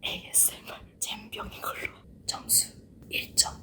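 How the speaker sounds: soft unvoiced ASMR whisper. Real, not acted. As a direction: whisper close to the mic. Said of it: "에이에스엠알로 하나하나 소리랑 자막으로만".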